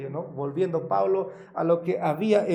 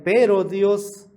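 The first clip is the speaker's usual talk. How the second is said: "pero Dios" much louder and slow; stressed pero Dios; 9 dB louder, slower than usual. Real, not acted. Preacher reading Ephesians, slowly booming "pero Dios". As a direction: call out "pero Dios" with weight.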